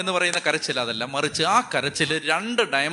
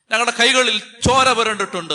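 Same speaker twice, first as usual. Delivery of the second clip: anguished cry; 6 semitones higher, 5 dB louder than usual. Retold or imitated. Voicing weeping prisoners' confession.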